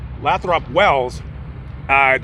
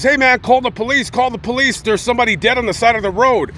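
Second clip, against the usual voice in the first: higher-pitched retold plea for help; urgent alarm; 6 semitones higher than usual. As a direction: imitate someone urgently raising the alarm. Witness frantically bangs on doors.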